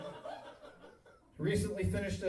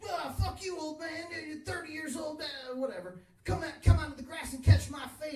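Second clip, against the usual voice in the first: high mock teen taunt; a teenager taunting the old man, voice pitched high; mocking kid; 9 semitones higher than usual. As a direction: play the cocky skate park kid, pitched up. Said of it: "he's like".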